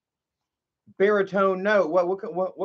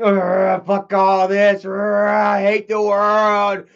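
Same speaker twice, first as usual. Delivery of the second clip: imitating bitter rage; 3 semitones higher, 7 dB louder, much slower than usual. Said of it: "You're like".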